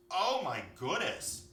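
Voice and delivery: a touch of storybook alarm; alarmed deer. A narrator's reading. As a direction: draw it out in mild shock.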